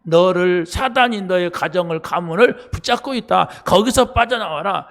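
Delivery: preacher declaring the word; proclaimed scripture. Acted. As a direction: thunder the verse like a command. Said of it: "성경은 그걸 말하고 있어요".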